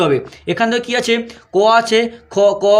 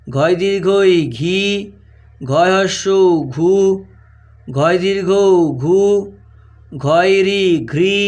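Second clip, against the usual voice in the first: very slow, drawn-out syllables with pauses; spelling dictation; much slower than usual. Shown as a demonstration. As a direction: dictate each letter combination slowly, stretching the final vowel. (ধীরে টেনে টেনে বানান বলা)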